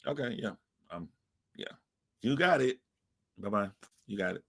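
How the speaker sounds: quiet, offhand brush-off; shrugging it off. Pretend. To a girl who insulted you, quiet and unbothered. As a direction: wave her away without caring. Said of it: "you'd be like".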